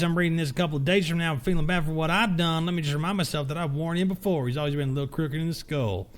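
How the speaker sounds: first take, a moderate redneck twang; redneck accent. Acted. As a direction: play the guard as a twangy redneck. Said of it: "putting some real, real redneck stank on this security guards".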